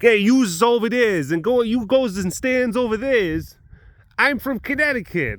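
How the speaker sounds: put-on brash Connecticut accent bossing tourists; Melissa's Connecticut accent. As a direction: order the tourists around, Connecticut style. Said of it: "she can be like".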